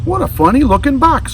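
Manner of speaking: high, puzzled alligator voice; high curious creature voice. Acted. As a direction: wonder at the strange box.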